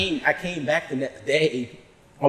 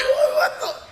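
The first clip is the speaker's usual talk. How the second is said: retold disbelief; slower than usual. Retold confronted by coworkers.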